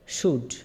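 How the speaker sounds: শুড said as one syllable, "shood"; a clear, isolated শুড, "shood"; demonstrating pronunciation. Shown as a demonstration. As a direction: model শুড for learners, L left silent. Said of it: "আপনারা উচ্চারণটা শিখে নেন".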